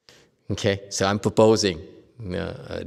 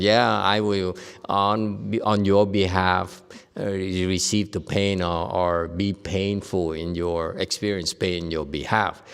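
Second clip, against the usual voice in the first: slow solemn master; 3 semitones lower than usual. Retold or imitated. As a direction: speak like a gentle old master. Voicing a Chinese master.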